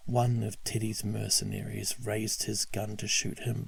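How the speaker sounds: plain reading voice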